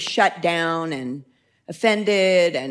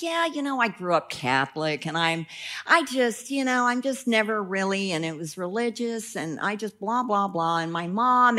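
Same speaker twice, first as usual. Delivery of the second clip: barely audible mumble, softer; mumbled quietly; 2 semitones lower, 6 dB quieter than usual. Retold or imitated. Passenger mumbling about his Catholic upbringing, quiet. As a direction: mumble it so she can barely hear. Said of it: "I can barely hear you".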